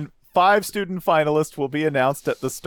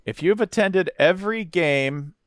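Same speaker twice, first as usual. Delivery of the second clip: promo announcer read. Retold or imitated. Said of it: "that was titled".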